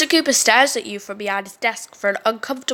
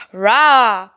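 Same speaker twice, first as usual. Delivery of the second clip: bear roar; 5 dB louder than usual. Acted. Voicing the bear.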